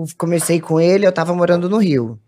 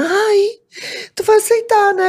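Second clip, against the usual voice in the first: much higher squeaky voice; excited sister. Retold or imitated. Sister squealing about the proposal.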